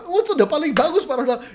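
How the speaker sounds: protes penjual bernada tinggi dan keras; penjual membantah. Acted. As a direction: bantah tawaran dengan suara naik, agak lantang. Penjual membantah dalam negosiasi. (membantah dengan nada tinggi)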